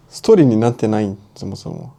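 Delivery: quick self-mocking laugh, then trailing off; laughing at herself. Real, not acted. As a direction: laugh it off and fade out. Laughs at own bad story.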